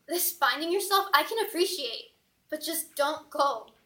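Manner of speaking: pleading. Acted. Boyfriend begs his girlfriend not to leave him, pleading. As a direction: beg slowly, stretching the words out.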